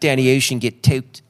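put-on Baltimore accent, drawled. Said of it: "I've been working on my Baltimore accent".

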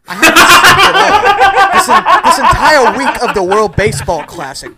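frazzled, wired manager laughing through it; Mark DeRosa impression. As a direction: sleepless coach rambling to Greg. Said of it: "Way better impression".

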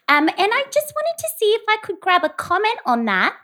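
polite phone reporter voice; lightly put-on tabloid reporter. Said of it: "work on her reporter voice".

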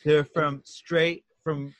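slow, emphatic Trump-style boasting; Trump impression. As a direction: pitch it like Trump selling windows. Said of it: "give us a nice Trump impression".

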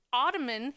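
ottoman as "OTTO-mun"; reduced last syllable. Shown as a demonstration. Host argues her pronunciation case, ottoman ending in unstressed "mun". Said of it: "you don't say ottoman".

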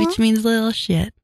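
sweet, sing-song delivery; cute voice. Real, not acted. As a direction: say it sweetly like a pet name. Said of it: "like it's a cute voice".

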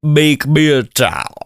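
high, pleading, dragged-out whine; whiny tycoon. Acted. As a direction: beg like a spoiled rich man. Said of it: "It's like".

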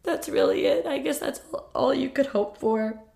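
high, tearful voice breaking into a sob; real crying, voice cracking high. Real, not acted. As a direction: fight back tears while speaking. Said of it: "I think I'm all cried out now".

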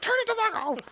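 high, frantic mock plea; freaking out. Venom begging the technicians to stop, high and frantic. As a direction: beg them to stop the noise. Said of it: "and he's like".

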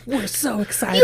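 high, loud, drawn-out mock excitement; imitated excited cheer. Retelling friends' reaction to getting tickets, loud excited cheer.

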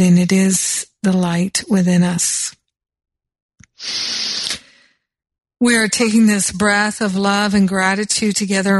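gentle, steady prayer voice, unhurried; guided prayer. Acted. Host leads radio listeners in a prayer, gentle and steady. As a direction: lead the listeners into prayer calmly.

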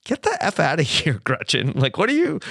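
Harvey blowing up. Retold or imitated. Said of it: "I kinda expected Harvey to be like".

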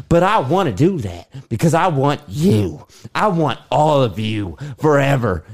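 pleading lover, earnest; begging her to choose him; acting Noah. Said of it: "Cut. Scene".

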